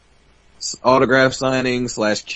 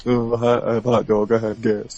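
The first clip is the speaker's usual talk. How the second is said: mock Bret Hart excuse. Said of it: "talking to Antonucci about".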